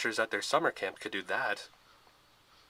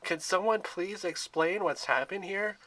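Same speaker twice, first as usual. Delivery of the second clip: frustrated shout; 8 semitones higher, slower than usual. A narrator's reading. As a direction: shout over everyone to get answers. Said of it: "Bianca shouted".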